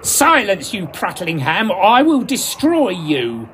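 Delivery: angry threat. Acted. Northfield threatening Compton on stage, angry and slow. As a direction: threaten the rival with rising anger. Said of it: "Northfield was getting angry".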